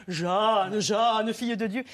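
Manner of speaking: Jeanne appelée lentement, comme sur scène; appel de Catherine. Retold or imitated. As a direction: une pointe de récitant d'oratorio. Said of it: "Je faisais Catherine, je disais". (léger appel théâtral de Catherine à Jeanne)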